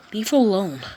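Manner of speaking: loud, sharp protective shout; shouted defense. Acted. Deku shouting at the bully to leave her alone. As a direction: yell it to stop the bully.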